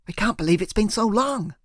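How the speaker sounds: gushing. Acted. Emily to her partner, gushing happily. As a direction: pour it out with delight. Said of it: "she gushed".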